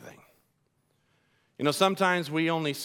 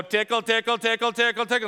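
a hint of repetitive parrot chatter; parrot imitation; 5 semitones higher than usual. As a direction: lightly mimic a parrot repeating itself. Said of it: "Then the two parents, one would go".

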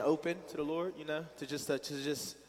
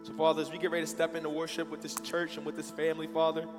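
prayer. Real, not acted. Leads congregation in prayer.

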